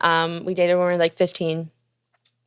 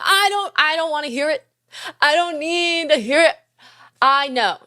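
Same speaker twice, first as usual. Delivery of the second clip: defensive; 7 semitones higher than usual. Real, not acted. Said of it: "have we been talking every day since".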